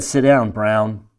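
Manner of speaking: slow, clipped commanding officer; curt general's order. Retold or imitated. General ordering a junior officer to sit, slow and stern.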